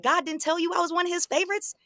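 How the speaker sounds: very high, incredulous questioning; mock disbelief, voice shooting right up; retold taunt.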